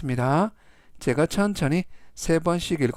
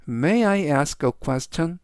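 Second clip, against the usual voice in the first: very slow, each word separated; slow, clear reading; much slower than usual. Shown as a demonstration. Teacher slowly reads the sentence three times for students. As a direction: read slowly so students can follow. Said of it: "제가 역시 천천히 세 번씩 읽어드리고요".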